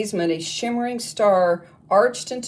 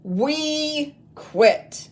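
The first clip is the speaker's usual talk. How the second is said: high, loud shout of rebellion; defiant holler; 8 semitones higher, 3 dB louder than usual. Acted. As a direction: holler it back at the teacher. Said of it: "they hollered".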